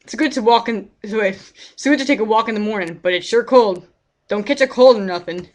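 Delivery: put-on a folksy old neighbour lamenting; old man NPC.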